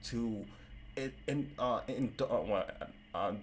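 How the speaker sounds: real stutter, stuck on words. Real, not acted. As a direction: stumble and restart each word. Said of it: "I'm stuttering".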